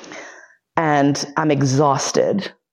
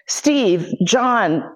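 mock yelling; 6 semitones higher, slower than usual. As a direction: toss out names at random, exasperated. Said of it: "I'm just yelling out names".

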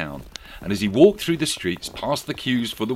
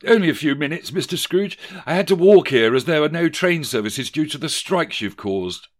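clerk voice; 8 semitones higher, 5 dB louder than usual. A narrator's reading. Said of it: "replied Charles".

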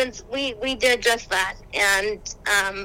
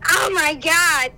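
mock gasp; 5 semitones higher, 4 dB louder, slower than usual. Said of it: "I would just go".

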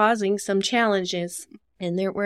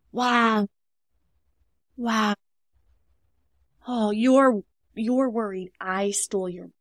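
empathetic reflecting; slower than usual. Shown as a demonstration. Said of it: "they are feeling heard".

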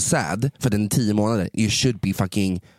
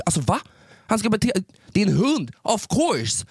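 can't believe it, voice flying high; exasperated high-pitched protest; high indignant disbelief; 11 semitones higher than usual. Real, not acted. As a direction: pitch jumps up in outrage. Outraged reaction to the story.

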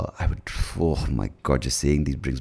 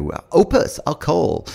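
much higher put-on voice of an outsider; foreign visitor voice; 12 semitones higher, 4 dB louder, slower than usual. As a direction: put on a visitor's voice, high and bright-eyed. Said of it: "people from outside the country would be like".

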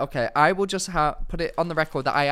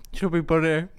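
cheeks stuffed full. Real, not acted. Mouth full of marshmallows.

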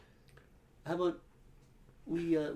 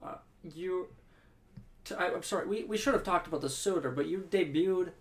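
mock tearing up. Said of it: "tearing up here".

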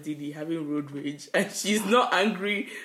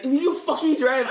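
high, loud, drawn-out mock yell; mimicked angry shout from behind the wheel; imitated road-rage yell; 8 semitones higher, 5 dB louder than usual. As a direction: yell at a bad driver, imitating a friend. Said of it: "she's yelling".

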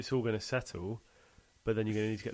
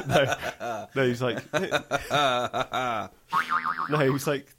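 loud, laughing through words; 4 semitones higher, 10 dB louder than usual. Real, not acted. Recovering from laughter while telling the co-host, laughing. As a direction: talk while still laughing.

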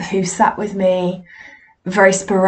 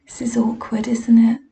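pitying little whisper; mock sympathetic whisper; 3 semitones higher than usual. Audience whispering pity at the failing medium. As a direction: hush it like an awkward onlooker. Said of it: "sympathetic smile thing".

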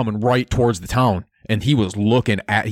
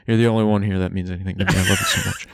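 overwrought gush; 3 semitones lower, much faster than usual. Acted. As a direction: gush at the pet, voice cracking way up. Balrock gushing to his pet.

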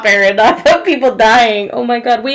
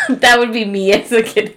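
laughing shout. Real, not acted. Laughing self-joke.

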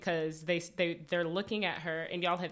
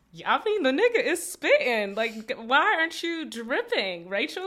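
hyped-up reaction; 3 semitones higher, 5 dB louder than usual. Retold or imitated. Fan yelling at the TV that Aven is spitting. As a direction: gush like a fan cheering him on. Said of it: "And I'm like".

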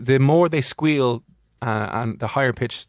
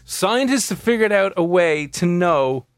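dramatic announcement; 2 semitones higher, slower than usual. Acted. Teasing big news announcement.

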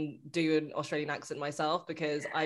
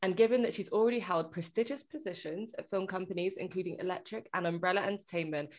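podcast host intro. Acted. Scripted guest introduction.

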